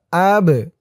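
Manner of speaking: echoing release on the b of أب; qalqala on ب. Shown as a demonstration. Teacher showing the qalqala letter, bounced b. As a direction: bounce the final b in "ab". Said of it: "ধাক্কা দিয়ে পড়তে হবে".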